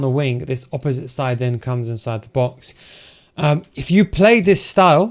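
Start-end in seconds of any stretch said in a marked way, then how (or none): 3.4-5.1 hoarse, voice giving out. Real, not acted. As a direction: speak through a tired, hoarse throat. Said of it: "while I'm losing my voice".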